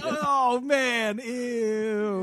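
loud high "ew" of disgust; grossed-out shout. Real, not acted. Disgust at rotting pumpkins.

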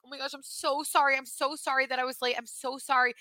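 imitating yourself apologizing profusely; apologetic. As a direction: gush repeated apologies, mildly acted. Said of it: "you have to be so apologetic".

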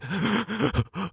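sharp gasp in mid-sob; imitating a crying gasp for breath; sobbing gasp. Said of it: "body crying".

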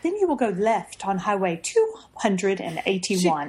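British Siri voice. Retold or imitated. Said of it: "she's like".

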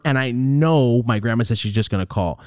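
ordinary delivery

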